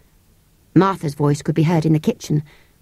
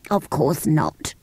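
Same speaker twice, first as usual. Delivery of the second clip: slow, whispery creature reply; weary creature; 2 semitones lower, 3 dB quieter, slower than usual. Acted. Creature answering the girl's question, slow and whispery. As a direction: breathe it out slowly.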